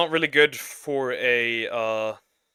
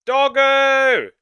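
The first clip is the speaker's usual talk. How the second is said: high, loud happy cry; excited squeal; 12 semitones higher, 10 dB louder than usual. Real, not acted. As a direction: yelp the name with delight. Excited about the couple's dog.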